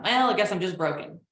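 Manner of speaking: a touch of dry self-mockery, leaning on well; mildly sarcastic shrug of a line. Traumatized client deflecting with sarcasm, mildly sarcastic. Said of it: "or sarcasm".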